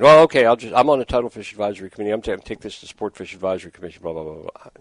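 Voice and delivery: mock dismissive rattle, fast, trailing off; dismissive brush-off. Host imitates the caller brushing him off, dismissive and quick. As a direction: toss it off like she can't be bothered. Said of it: "she just dismissed me at the end".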